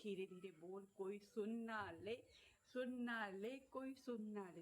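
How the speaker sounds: soft, hushed shushing. Pretend. Hushing viewers so nobody overhears, soft. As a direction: whisper it like a secret. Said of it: "तो मैं धीरे धीरे बोलती हूँ".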